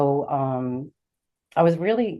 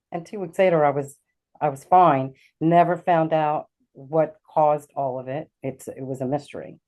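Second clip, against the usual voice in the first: ordinary talk, nothing marked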